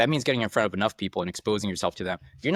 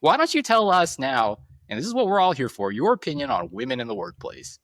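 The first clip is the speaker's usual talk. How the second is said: mock podcast host; 6 semitones higher than usual. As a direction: put on a show-host voice to ambush a guest. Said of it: "go into hosting a podcast live".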